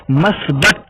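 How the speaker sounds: मस्बत said with a, the wrong form; wrong pronunciation. Shown as a demonstration. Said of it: "ये गलत लफ्ज़ है". (ग़लत उच्चारण मस्बत)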